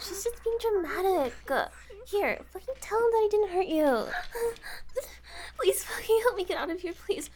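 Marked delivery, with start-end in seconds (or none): 2.1-7.3 lightly voiced captive girl, crying and begging; terrified captive. Kidnapped girl begs the visitor to free her, tearful. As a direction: beg for release through panic.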